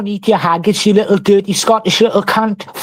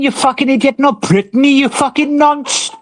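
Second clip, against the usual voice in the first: higher-pitched, scornful insults; angry correction; 5 semitones higher than usual. Real, not acted. Correcting a rival's wrong name with insults, angry.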